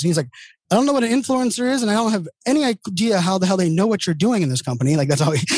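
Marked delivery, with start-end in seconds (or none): 0.7-5.0 higher, blunt boss who doesn't get it; imitating gruff CEO. CEO to his employee about the award, gruff and baffled. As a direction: play the baffled, brusque boss. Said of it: "that's how he talked to me".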